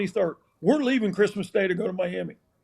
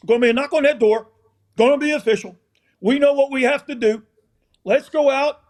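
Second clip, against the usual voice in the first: pregame pep talk; 5 semitones higher, 3 dB louder, faster than usual. Retold or imitated.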